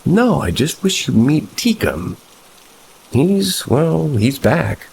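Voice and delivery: put-on high-pitched girlfriend character voice; pleading girlfriend. A narrator's reading. Girlfriend pleads, reveals the goblin.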